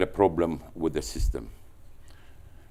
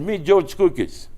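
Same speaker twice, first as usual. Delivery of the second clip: high, slow put-on Southern drawl; mock Southern American drawl; attempt at Southern American accent; 11 semitones higher, 6 dB louder, slower than usual. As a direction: try the Atlanta drawl, a bit hammed-up. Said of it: "do the American accent, but I will try".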